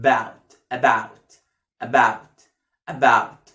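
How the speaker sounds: "About" low, with a long open ow; drawn-out model. Shown as a demonstration. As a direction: take time over the ow in "About". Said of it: "بياخد فترة هو بيقول كلمة". (نطق "About" بمد آو)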